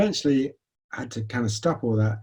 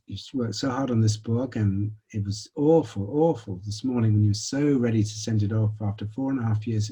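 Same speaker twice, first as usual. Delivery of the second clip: compassionate self. Retold or imitated. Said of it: "my compassionate self turned up".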